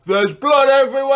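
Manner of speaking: high, loud horror-film cry; dramatic yell. Retold or imitated. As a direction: yell it out, stretching the last word. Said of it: "threw my arms out wide and yelled".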